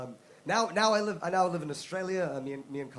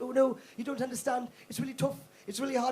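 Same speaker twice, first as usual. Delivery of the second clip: put-on offended girl whining; 6 semitones higher than usual. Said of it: "And she's like".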